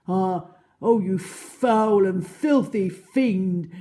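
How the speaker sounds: high, loud, slow outraged tirade; indignant animal hurling insults; furious scolding. Acted. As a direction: spit each insult at the villain. Animal cursing the crocodile.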